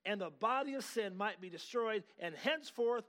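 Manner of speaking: slow, emphatic pulpit reading; forceful scripture reading. Acted. Preacher reading the verse to congregation, forceful and deliberate. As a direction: proclaim the verse phrase by phrase.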